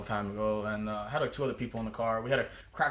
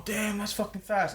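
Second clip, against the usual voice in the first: slow, higher-pitched impressed quote; retold amazement; 8 semitones higher, slower than usual. Passengers reacting to two hundred miles an hour, mock amazed. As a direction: imitate awed passengers, drawn out.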